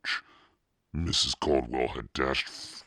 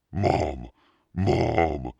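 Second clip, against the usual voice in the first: louder, higher frightened call; calling for mom; 4 semitones higher, 6 dB louder than usual. A narrator's reading. Scared boy calling his mother, frightened. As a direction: call out for help.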